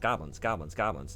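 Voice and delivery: "goblins" repeated forward in the mouth; "goblins" said crisply at the front. Shown as a demonstration. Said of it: "at the front of the mouth".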